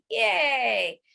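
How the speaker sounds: bright yay; happy yay; cheer. Shown as a demonstration. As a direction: cheer them on.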